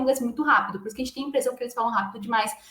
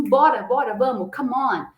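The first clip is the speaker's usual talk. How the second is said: louder, hurrying someone along; urging on; 3 dB louder than usual. Shown as a demonstration. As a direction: hurry them up, "bora, bora". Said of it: "Você fala assim". (apressando: "bora, bora, vamos")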